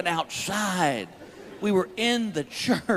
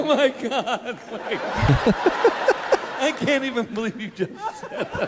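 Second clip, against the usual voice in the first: delighted amazement; 3 semitones higher than usual. Real, not acted. Stunned laughing disbelief at joke.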